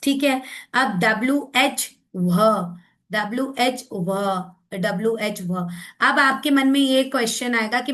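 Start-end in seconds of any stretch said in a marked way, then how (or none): 2.2-2.8 वह as one breathy "wh" digraph sound; blended WH sound. Shown as a demonstration. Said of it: "आप उसको sound देंगे". 3.9-4.1 व said as "wh", H audible; blended WH sound. Shown as a demonstration. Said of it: "आप उसको sound देंगे". 5.4-5.5 व said as "wh", H audible; blended WH sound. Shown as a demonstration. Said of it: "आप उसको sound देंगे".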